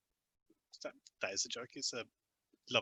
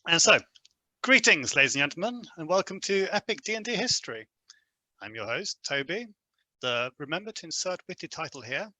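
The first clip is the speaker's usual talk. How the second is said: hammed-up podcast host opening the episode; show host intro. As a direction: play the showman greeting the audience.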